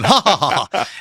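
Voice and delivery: a hammed-up mocking cackle; mock laugh.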